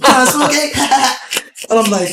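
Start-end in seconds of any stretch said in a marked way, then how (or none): 0.0-0.7 higher, laughing goofy ask; imitating a buddy. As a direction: play the friend cheekily asking to smoke. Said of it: "Nigga, I do not sound like that".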